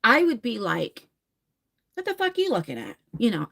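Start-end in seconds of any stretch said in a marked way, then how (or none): 1.9-3.0 high, fast mock drunk aggression; imitating her old nasty bar self; nasty drunk attitude. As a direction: fire it off like a mean drunk picking a fight. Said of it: "I was like a bitch".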